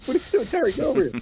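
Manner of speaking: high, urgent acted shout; calling out. Teller to Rhino running the wrong way, calling out. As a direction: yell after someone running off. Calling back a panicking friend.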